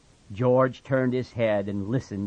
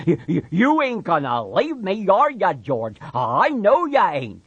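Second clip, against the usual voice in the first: put-on higher, louder childlike begging; pleading Lenny; 8 semitones higher, 6 dB louder than usual. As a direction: beg for reassurance.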